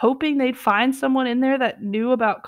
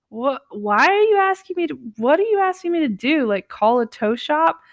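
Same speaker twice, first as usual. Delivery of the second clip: as if strangers ask a random shopper to fix their car; stunned disbelief; 4 semitones higher than usual. Retold or imitated. Mark stunned, asking what they want. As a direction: pitch jumps higher, baffled and stunned. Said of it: "Mark is just stunned".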